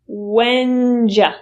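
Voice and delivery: Whenja with the you turned into ja; reduced form. Shown as a demonstration. Teacher modelling when did you as whenja. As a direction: say Whenja as one word, J sound. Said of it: "The U turns into J".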